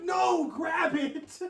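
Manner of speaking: high, loud slow-drawn command; mock mom order. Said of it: "she was like".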